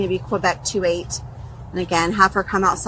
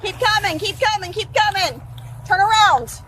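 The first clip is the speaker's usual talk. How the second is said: shouted police commands; 11 semitones higher than usual. Real, not acted. Officer directing suspect out.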